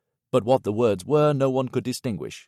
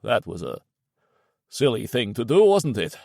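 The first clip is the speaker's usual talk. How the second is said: empty, lifeless voice; 3 dB louder than usual. Acted. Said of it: "his voice was quiet and empty of all life".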